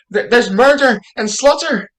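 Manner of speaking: stage panic, stumbling into a rush of words; alarmed report. Acted. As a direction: blurt out the dreadful news. Servant reports bloodshed in alarm.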